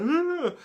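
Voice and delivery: high, wordless drawn-out noise; mock approach noise. Person reaching hands out to pet the dog, high mock noise. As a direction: imitate someone looming with a high sound.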